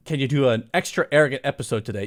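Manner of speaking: ordinary talk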